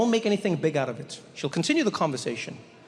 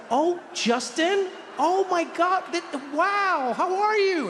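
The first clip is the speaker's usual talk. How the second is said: much higher, gushing fake delight; fake-surprised woman; 12 semitones higher, slower than usual. Woman pretending to know the stranger, in a gushing high voice. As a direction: overact the joy of seeing an old friend.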